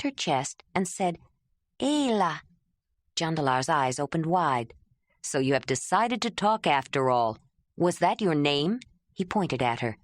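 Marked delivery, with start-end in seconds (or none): 1.8-2.4 lightly voiced "Ayla", a touch higher, clipped; strange clipped accent. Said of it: "She had a strange accent". 5.2-8.8 a hint of a lower man's voice, surprised; a touch lower, curious man; lightly voiced Jondalar.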